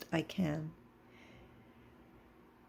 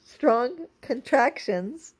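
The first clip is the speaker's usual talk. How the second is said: Strong contractions said slowly and higher, each syllable deliberate; carefully spelling out Strong contractions, slow and raised; slow careful pronunciation; 6 semitones higher, 4 dB louder, slower than usual. Real, not acted. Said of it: "I can't even say it now".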